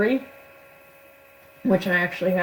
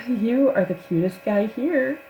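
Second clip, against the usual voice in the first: sing-song flirt; 4 semitones higher than usual. Retold or imitated. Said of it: "little sing-song in her voice".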